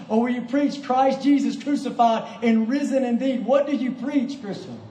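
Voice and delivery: forceful, challenging sermon delivery; impassioned preaching. Real, not acted. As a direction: press the congregation with each question.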